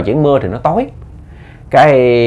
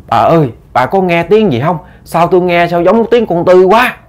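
puzzled; 7 semitones higher than usual. A narrator's reading. Old man hears strange voice.

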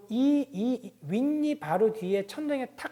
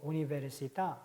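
università with the final à drawn long; long accented vowel; 4 semitones lower, 6 dB quieter, much slower than usual. Shown as a demonstration. Teacher contrasting long open accent, slowly. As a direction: stretch the à at the end of università. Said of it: "약간 이건 길고".

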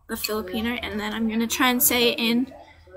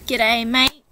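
Australian greeting; 4 dB louder than usual. Shown as a demonstration. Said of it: "So in Australia, when people say hello".

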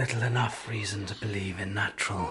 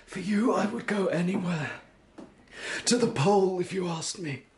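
passionate declaration; 7 semitones higher, 6 dB louder than usual. Acted. Husband pleads love to wife.

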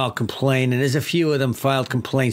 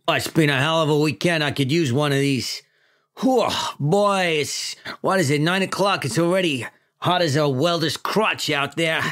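lightly voiced New York chief; a hint of Brooklyn cop; New York accent. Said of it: "my classic New York accent".

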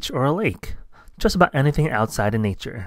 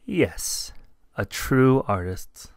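gentle; much slower than usual. Acted. Bird reassures slowly.

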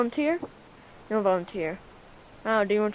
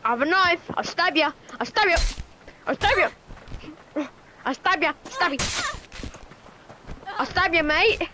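lightly put-on Australian accent, higher; a hint of an Australian bloke threatening; 4 semitones higher than usual. Gamer acting like an Australian bloke, mock Australian accent. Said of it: "I'm acting like an Australian bloke".

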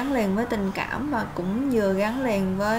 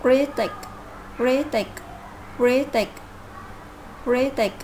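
"critic" with the stress on CRI and a falling end; teacher modelling "critic" stressed on CRI; stress first syllable. Shown as a demonstration. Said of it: "nhấn âm thứ nhất".

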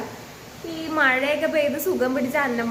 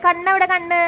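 high, louder sing-song coaxing; 5 semitones higher, 5 dB louder than usual. Real, not acted. Quizzing baby on body parts.

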